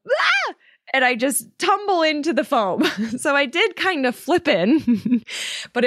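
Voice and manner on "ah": very high frightened ah; scared yelp. Retold or imitated. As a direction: shriek as you fall. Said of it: "I just go".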